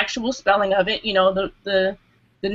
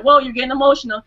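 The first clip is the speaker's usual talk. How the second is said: quick, higher mock caution; imitated caution; 4 semitones higher, faster than usual. Retelling the host calling her emotional, quick imitated caution. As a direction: rush out a retold 'whoa', pitched up. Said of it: "You're like".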